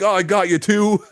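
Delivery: high, laughing taunt; gleeful taunt. Retold or imitated. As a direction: tease the coworker gleefully. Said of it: "I'm like".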